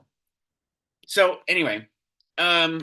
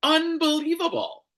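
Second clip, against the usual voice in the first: exasperated disbelief; 10 semitones higher than usual. Real, not acted. Ranting at pundits on TV, exasperated disbelief. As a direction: throw up your hands at it.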